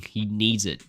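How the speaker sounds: usual speaking voice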